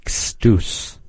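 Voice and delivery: teacher showing the ending change; changed ending. Shown as a demonstration. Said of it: "Hear that ending change?".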